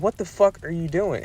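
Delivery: retold incredulous challenge; retold disbelief. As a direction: act out being incredulous without raising volume. Acted confrontation with woman undressing.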